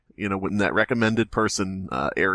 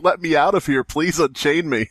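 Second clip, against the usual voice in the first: pleading captive ex; 5 semitones higher than usual. Pretend. Host voicing the ex as a starved captive, mock pleading. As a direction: beg to be unchained, hammed up. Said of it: "And she's like".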